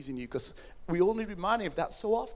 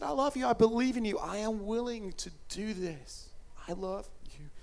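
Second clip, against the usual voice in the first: tender declaration. Retold or imitated. Preacher as Jesus telling listeners he is willing, tender.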